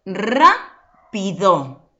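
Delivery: "Rápido" very slow, loud RA, then pi-do; stress on first syllable. Shown as a demonstration. Teacher showing an accented tonic syllable, RA-pi-do in "Rápido". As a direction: stretch and punch the "Rá" of "Rápido", syllables apart. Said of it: "Esa es mi sílaba tónica".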